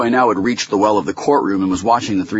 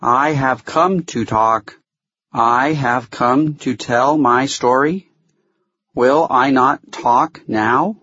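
slow, distinct, high little voice; high, thin creature; 7 semitones higher, 3 dB louder, slower than usual. A narrator's reading. Fuzzy asks the court, in a high thin voice. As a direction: pick out each word in a thin, high voice. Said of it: "in a high, thin, but distinct voice".

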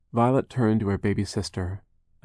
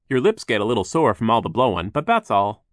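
cheerful worker voice; 3 semitones higher, 8 dB louder than usual. Acted. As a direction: reassure the worried sisters. Voiced Phil.

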